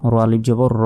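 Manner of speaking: last র held long with an open vowel; র ending on a lengthened vowel; one-alif stretch. Shown as a demonstration. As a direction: draw the final র out, no n. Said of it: "এভাবে উচ্চারণ করতে হবে".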